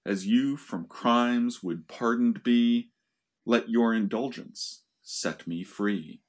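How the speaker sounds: measured, unhurried dramatic reading; verse recitation. Acted. Lecturer recites Prospero's epilogue for listeners, measured verse reading. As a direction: recite the verse with deliberate pauses.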